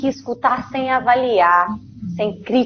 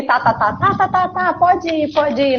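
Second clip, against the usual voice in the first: put-on hurried tá tá tá, higher, pushing the child away; impatient brush-off; 5 semitones higher than usual. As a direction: rattle off tá tá tá pode ir to cut the child short. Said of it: "peraí, não é assim".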